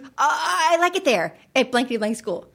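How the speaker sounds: imitating a scared kid's forced approval; panicked child. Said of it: "this panic look on his face".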